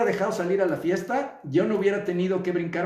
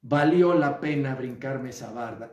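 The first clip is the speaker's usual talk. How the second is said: content adult acceptance; 5 semitones lower than usual. Retold or imitated. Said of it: "te sobas y dices".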